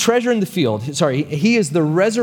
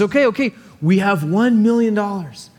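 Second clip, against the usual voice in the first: flustered auctioneer; 6 semitones higher than usual. Acted. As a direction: recover and call the bid. Stunned auctioneer recovers and announces.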